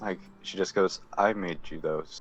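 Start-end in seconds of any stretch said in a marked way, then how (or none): 1.2-2.2 low, soft mutter under the breath. Voicing a character who speaks to another character: said under her breath. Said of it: "under her breath".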